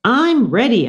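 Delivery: high squeaky answer; squeaked. Acted. Hamster answering Miranda, high squeak. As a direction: squeak it eagerly. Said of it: "I squeaked".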